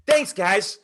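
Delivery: punchy, upbeat demo read; asking like you mean it. Shown as a demonstration. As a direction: sell it with inflection. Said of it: "ask it like you mean it".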